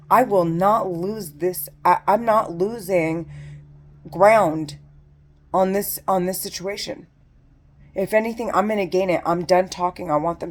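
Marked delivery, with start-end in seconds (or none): 0.1-7.1 slow, loud and defiant; defiant anger. Real, not acted. Vowing to the camera not to give in, slow and loud. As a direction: hammer it out slowly, loudly.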